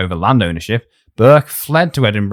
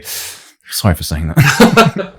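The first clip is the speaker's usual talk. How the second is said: mock apology; much slower than usual. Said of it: "This entire episode's gonna be".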